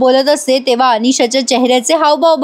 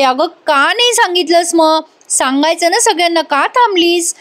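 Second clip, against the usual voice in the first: higher-pitched, pressing reproach; insistent questioning; 4 semitones higher than usual. Retold or imitated. Friend asking Kavya why she stopped, insistent reproach. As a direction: press her with raised pitch, no added volume. Friend challenges her for staying silent.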